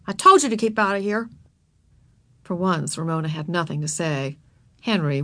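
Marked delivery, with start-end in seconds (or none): 0.1-1.3 mildly annoyed scolding; a touch of crossness; cross boy. A narrator's reading. Boy scolding the girl in the mud, mildly cross. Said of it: "he said crossly".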